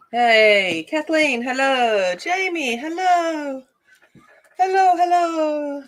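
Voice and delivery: high, drawn-out hellos; excited greeting. Real, not acted. Streamer greeting viewers as they join, high sing-out hello. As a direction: call out high and long to friends arriving.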